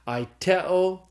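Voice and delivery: aiteo slowly, stressed on TE; stress on middle syllable. Shown as a demonstration. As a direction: say "aiteo" as ai-TE-o, drawn out. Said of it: "accent the syllable with the epsilon".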